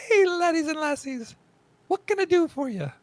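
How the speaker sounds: high, loud Scottish dwarf innkeeper; hammed-up Scottish lady dwarf. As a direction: belt it out like a Scottish tavern dwarf. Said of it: "It's a great dwarf lady voice".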